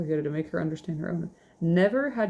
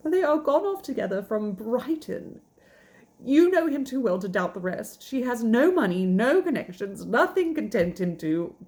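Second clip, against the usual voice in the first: distressed; 4 semitones higher than usual. Acted. Elizabeth tells Darcy of elopement.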